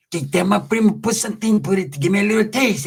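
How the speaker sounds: lightly voiced wheedling inmate; half-mumbled inmate hustling his visitor; imitated inmate voice. Voices Pepe begging for a taste.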